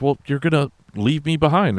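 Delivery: high, put-on voice, complaining of being left behind; whiny complaint. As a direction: whine it like a sulky rival. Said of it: "And he's like".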